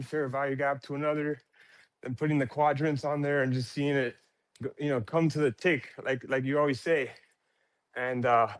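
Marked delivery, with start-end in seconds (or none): 4.6-8.5 out of breath. Real, not acted. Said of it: "sorry, I'm out of breath".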